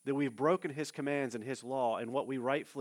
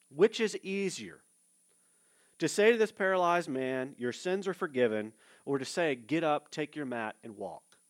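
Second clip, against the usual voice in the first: preaching Jesus's question; 3 dB louder than usual. Acted. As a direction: challenge the scribes, then soften.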